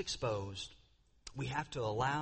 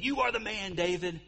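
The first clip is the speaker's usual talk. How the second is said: higher, pointed accusing tone; angry accusation; 4 semitones higher, 3 dB louder than usual. Retold or imitated. Nathan pointing at David in anger, accusing tone. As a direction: jab the words like a pointed finger. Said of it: "with eyes of anger and saying".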